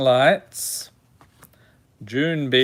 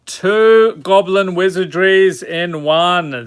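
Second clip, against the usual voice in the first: excited; 4 semitones higher, 6 dB louder than usual. Real, not acted. Excited at a double pull.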